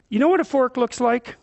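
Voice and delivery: put-on gentle coaxing question to a toddler; coaxing parent. Shown as a demonstration. Parent coaxing a toddler to help, gently. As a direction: ask it kindly, like to a small child. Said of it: "You say".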